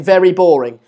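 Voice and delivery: loud "Very boring." said like a headline; emphatic title. Shown as a demonstration. Streamer dictating a video title to his editor, loud. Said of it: "title this".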